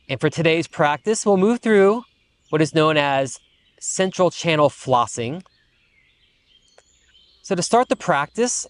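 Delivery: unhurried meditation guide, pausing between phrases; guided meditation. Acted. Teacher settling students after the breathwork, calm guided meditation. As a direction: ease them into stillness, phrase by phrase.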